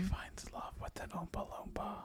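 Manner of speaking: soft conspiratorial whisper. Pretend. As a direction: whisper the joke like gossip. Joking whispered punchline.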